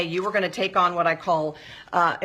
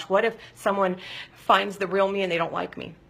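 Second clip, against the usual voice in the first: normal talking voice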